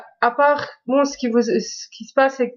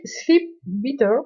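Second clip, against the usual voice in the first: slow, self-mocking English accent on "Sleep Beater"; slower than usual. Real, not acted. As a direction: pronounce the app name with a mock English accent. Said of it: "avec mon bel accent, euh, anglais". (léger accent anglais moqueur, lent)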